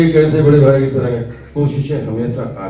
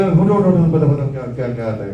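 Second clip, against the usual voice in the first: put-on a light take on an old teacher calling students up; teacher's brisk "get up, tell me" voice, only hinted; imitating Baba Karanth. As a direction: urge the student to stand and speak, lightly imitated. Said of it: "Kanhaiya, याद है बाबा साहब".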